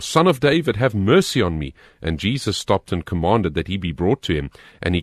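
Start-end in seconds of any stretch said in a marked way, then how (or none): 0.0-1.7 high-pitched, insistent plea for mercy; narrator's raised, emphatic cry. A narrator's reading. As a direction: lift the voice sharply as if calling over a crowd. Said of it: "he kept crying out all the more".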